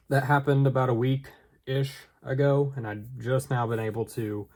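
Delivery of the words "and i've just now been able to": shivering from the cold. Real, not acted. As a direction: voice shaking with cold. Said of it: "sorry, I am freezing right now".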